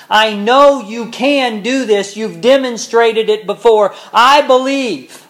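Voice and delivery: loud, high, slow pleading cry; desperate cry. Acted. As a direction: cry it out from the depth of your being. Preacher voices the desperate father.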